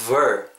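"ver" opening on a vibrating v; buzzing v sound. Shown as a demonstration. Teacher contrasting V with B, buzzed "ver". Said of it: "약간 입술이 떨려야 돼요".

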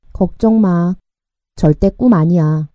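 deadpan, low-key reply; dry, matter-of-fact. Acted. Jihu bursts Yeoul's dreamy bubble, dry and unimpressed. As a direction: answer drily, puncturing the dreamy mood. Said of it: "무미건조하게 대답했다".

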